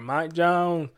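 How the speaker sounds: another go at "Jones" with a light Houston accent; half-hearted Houston accent on the name; Houston accent attempt. Shown as a demonstration. Host admitting he can't nail the Houston accent. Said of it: "I have to work on my Houston accent".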